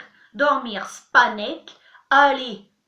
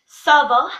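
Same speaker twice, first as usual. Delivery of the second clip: burp talking; 10 dB louder than usual. Shown as a demonstration. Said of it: "un peu de tchèque en rotant".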